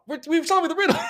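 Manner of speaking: high, loud hammy hero voice; goofy cartoon hero puzzling; Batman voice.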